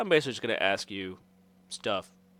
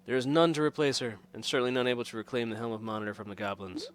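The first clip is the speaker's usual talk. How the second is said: formal, slightly raised lordly voice; stately lord; 2 semitones higher than usual. Acted. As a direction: greet a stranger like a grave nobleman. Voices game's Lord Marston.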